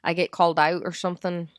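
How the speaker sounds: light Scottish-Irish accent; lilting Irish accent. Shown as a demonstration. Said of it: "in my Scottish slash Irish voice".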